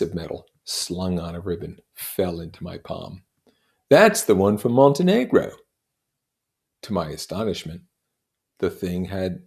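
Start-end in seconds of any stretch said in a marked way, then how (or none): 3.9-5.5 lightly voiced proud storyteller, rising; boasting of medals, building up; Gadsby telling his war tale. Gadsby boasting to Nick of his war medals, proud.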